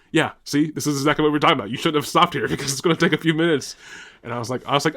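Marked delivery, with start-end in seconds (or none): 0.1-3.8 told-you-so inner voice. Retold or imitated. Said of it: "the other bubble ... it goes".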